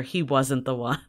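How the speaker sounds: low, hushed documentary narrator. Retold or imitated. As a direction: drop into a grave narrator tone. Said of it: "That was a better narrator voice".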